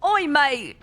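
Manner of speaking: high, hammed-up Australian call; attempted Australian accent. Streamer trying an Australian for fun, hammed-up Aussie accent. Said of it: "I can't do an Australian".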